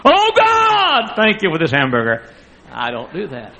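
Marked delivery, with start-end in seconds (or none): 0.0-2.2 high, hammed-up prayer voice; mock-pious grace before a meal. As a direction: pray in an overdone, lofty way. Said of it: "I'll pray like that".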